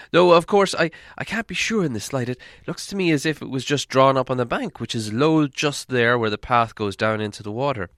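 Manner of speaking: high, hesitant hobbit voice; stammering, careful hobbit. Acted. Hobbit peering across the river, high and hesitant.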